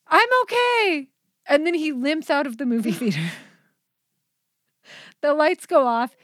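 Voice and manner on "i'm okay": very high, drawn-out I'm okay; embarrassed guy. Retold or imitated. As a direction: squeak it out to save face. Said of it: "and he goes".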